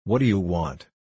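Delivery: cross little crab voice; snappy clicking crab. A narrator's reading. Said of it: "in a cross voice".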